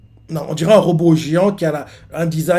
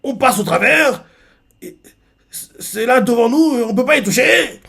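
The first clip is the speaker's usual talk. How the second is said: voix haute et étonnée; s'étonner de passer au travers; incrédule; 7 semitones higher than usual. Retold or imitated. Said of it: "lui fait". (incrédulité aiguë)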